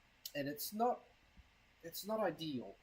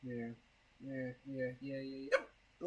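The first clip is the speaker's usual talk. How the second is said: hiccups; 3 semitones lower, 5 dB quieter, slower than usual. Real, not acted. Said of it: "Oh, hiccups".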